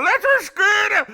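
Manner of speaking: high loud Scottish shout; shouted Let's go. Retold or imitated. Scottish man ending his joke, loud shout. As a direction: bellow it like a punchline. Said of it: "just ended by going".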